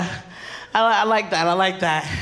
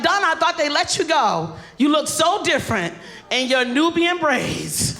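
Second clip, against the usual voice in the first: higher, bright fake surprise; mock surprised greeting; 6 semitones higher than usual. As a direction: gush in surprise at her new look. Mock greeting to coworker Donna.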